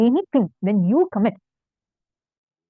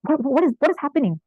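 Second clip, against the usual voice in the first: higher, stammered retold astonishment; mild disbelief; 5 semitones higher than usual. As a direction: act out stunned parents, lightly. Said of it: "They're not able to believe their eyes".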